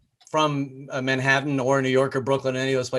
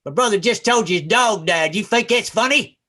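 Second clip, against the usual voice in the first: Southern big brother; 4 semitones higher, 3 dB louder than usual. Acted. Big brother confronts the laughing visitor, indignant Southern accent. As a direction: challenge him in a Southern accent. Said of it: "this big brother shows up".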